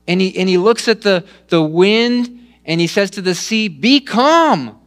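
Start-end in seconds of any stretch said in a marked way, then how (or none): 3.7-4.8 commanding rebuke. Acted. Jesus rebuking the sea.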